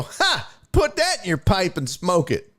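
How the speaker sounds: imitating mom's taunt. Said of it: "she'd go".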